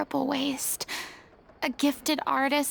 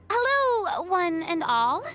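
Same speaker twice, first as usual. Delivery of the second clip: grand greeting; 3 semitones higher, slower than usual. Acted. Grand theatrical entrance.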